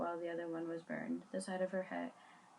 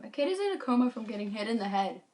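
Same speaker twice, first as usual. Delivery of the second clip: exclaiming; 2 semitones higher, 8 dB louder than usual. Acted. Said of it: "she exclaimed".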